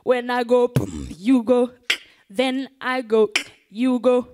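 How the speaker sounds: loud chant to the crowd; call and response. Shown as a demonstration. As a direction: lead the chant, slowing on "then I go". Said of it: "Are you ready?".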